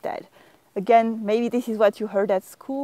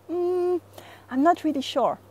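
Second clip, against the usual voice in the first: unsure; 7 semitones higher than usual. Shown as a demonstration. French teacher demonstrates tone of voice, doubtful and unsure. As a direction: voice lifted in doubt. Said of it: "it's a matter of tone of voice".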